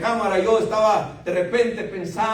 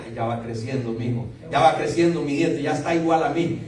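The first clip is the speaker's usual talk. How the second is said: doting grandparent; 6 semitones lower than usual. Retold or imitated. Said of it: "los abuelos dicen".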